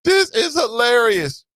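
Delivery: laugh, then shout it slow. Real, not acted.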